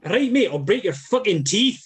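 mock-menacing Scot; Scottish accent. Shown as a demonstration. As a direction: put on a punchy Scottish accent. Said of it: "a Scottish accent you probably know".

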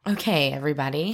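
fast peppy cheer call; rally the squad, quickly; cheerleader. Acted. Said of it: "That's my cheer voice".

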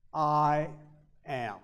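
weighty I, hushed am; stress on I. Shown as a demonstration. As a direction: lean hard on "I", let "am" fall away. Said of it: "It's emphasizing the word I".

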